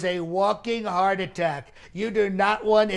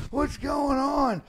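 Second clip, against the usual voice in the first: high, slow bewildered cry; mock confused shout; 6 semitones higher, slower than usual. Comic mocking the president, slow bewildered cry. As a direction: cry out lost and baffled.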